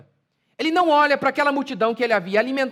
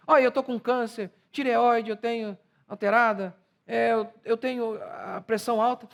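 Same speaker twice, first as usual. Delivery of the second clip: mocking complainer. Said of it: "é como se fosse assim".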